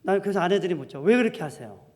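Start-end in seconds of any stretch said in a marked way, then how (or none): 1.0-1.8 louder, higher protest, building to the last plea; wives demanding answers. Acted. Wives confronting husband over his decisions, demanding. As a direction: challenge him, pushing harder each time. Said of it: "아내들이 막 따집니다".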